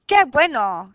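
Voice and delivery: cheerful exclamation Qué bueno. Shown as a demonstration. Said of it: "es una exclamación".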